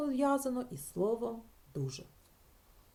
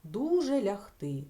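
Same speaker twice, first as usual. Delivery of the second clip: Дуже лягти said slowly and louder, testing it; teacher testing a word aloud; slow trial phrase; 5 dB louder, slower than usual. Shown as a demonstration. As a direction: try out the odd phrase slowly. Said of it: "так ніхто не каже".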